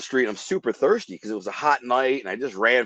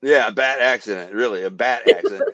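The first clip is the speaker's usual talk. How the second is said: laughing. Real, not acted.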